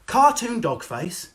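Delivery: slow disgusted mockery; scornful. Real, not acted. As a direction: spit out the contempt slowly. Scornful slow jab at influencer.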